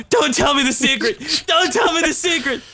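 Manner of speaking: retold shout. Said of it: "I was like".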